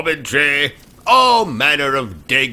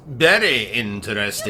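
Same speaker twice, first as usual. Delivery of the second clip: put-on British accent; 3 semitones lower, 3 dB quieter, faster than usual.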